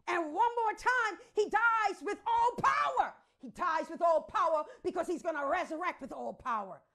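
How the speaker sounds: triumphant preacher proclaiming all power; preaching at full force. Acted. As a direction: build the cry of all power. Preaching climax.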